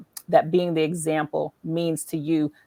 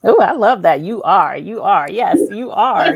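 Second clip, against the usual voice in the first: delighted; 8 dB louder than usual. Real, not acted. Host delighted by the acronym.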